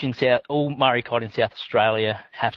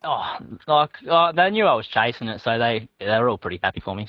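casual, understated. Real, not acted. Angler telling host about mates' reaction, unexcited. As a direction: play down the achievement casually. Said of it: "you don't sound as excited as you should".

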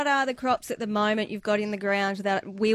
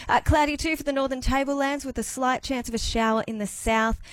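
news read; 3 semitones lower, faster than usual. Acted. Radio weather and news read.

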